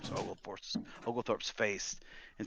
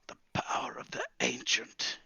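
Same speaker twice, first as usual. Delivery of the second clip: raised, breathy hiss of awe; 4 semitones higher than usual. Acted. Old wizard poring over his glowing spellbook, hissing. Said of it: "he hisses from his lips".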